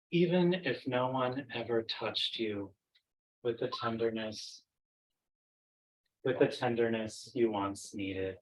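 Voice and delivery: measured poetry reading with long pauses between phrases; poem recitation. Acted. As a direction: recite it unhurriedly, letting each phrase settle. Recites own poem from memory.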